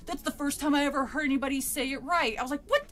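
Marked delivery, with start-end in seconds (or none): 0.1-2.4 higher, louder gushing nerd voice; mock excited dork. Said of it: "this fucking dork behind me". 2.7-2.9 much higher, louder and slow, fuming; indignant rant. Retold or imitated. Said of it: "it still pissed me off".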